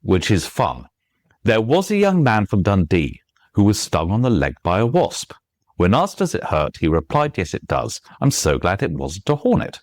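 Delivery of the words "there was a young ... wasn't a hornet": put-on "There was a young man from Dundee" recited with a lilting limerick beat; limerick rhythm. Shown as a demonstration. Author recites a limerick without rhyme, lilting rhythm. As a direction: lean on "Dundee", "leg" and "wasp" in metre. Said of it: "It's got all of the rhythm".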